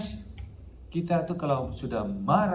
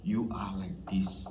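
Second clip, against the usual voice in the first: whispered, slow, like a secret; hushed warning; 7 semitones lower, 6 dB quieter, slower than usual. Real, not acted. Preacher warning Christians in a hushed whisper. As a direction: lean in and breathe the warning.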